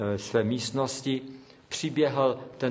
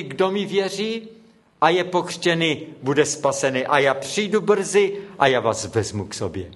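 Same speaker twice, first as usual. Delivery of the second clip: raised, ringing prayer voice calling on God; fervent prayer; 2 semitones higher than usual. Retold or imitated. Preacher praying over the drowned boy, raised fervent prayer. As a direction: pray aloud over the dead boy with rising fervour.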